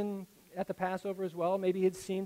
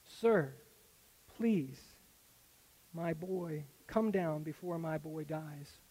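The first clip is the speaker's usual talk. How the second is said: desperate plea; slower than usual. Retold or imitated. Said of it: "He said".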